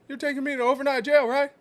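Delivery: hammed-up retold banter. Retold exchange, raised voice.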